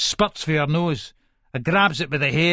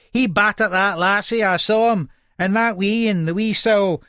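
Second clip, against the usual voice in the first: put-on accusing old neighbour; 4 semitones higher, 3 dB louder than usual.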